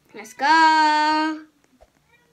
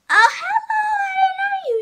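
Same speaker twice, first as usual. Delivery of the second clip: mock surprise; faster than usual. Seeker finds a hider, mock surprise.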